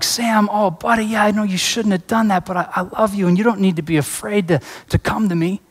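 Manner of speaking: high-pitched, tender uncle voice; heartbroken reassurance. Retold or imitated. Loving uncle comforting his upset nephew, heartbroken reassurance. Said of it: "like, broken".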